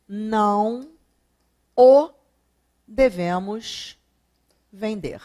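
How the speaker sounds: "não o devemos vender" spoken slowly, with long pauses between the words; slow second option. Shown as a demonstration. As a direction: lay out "não o devemos vender" word by word for the class. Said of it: "Não devemos vendê-lo ou não o devemos vender?". ("não o devemos vender" dito devagar, palavra por palavra)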